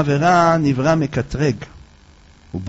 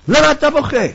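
surprised question; 9 semitones higher, 4 dB louder than usual. Acted. Friend asks weeping man.

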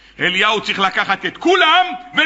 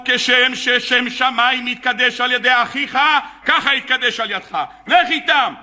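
solemn command. Acted. Elijah commanding the bull.

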